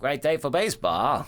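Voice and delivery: booming fifties ballpark greeting; old-time radio announcer. Pretend. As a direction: open the broadcast like an old announcer. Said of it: "the old-time announcer voice".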